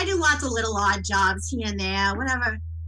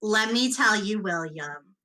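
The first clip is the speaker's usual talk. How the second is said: intimidating purr. Acted. Strong woman warning William across the table, lightly menacing. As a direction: threaten him sweetly, leaning in. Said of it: "She's got, like, this, like".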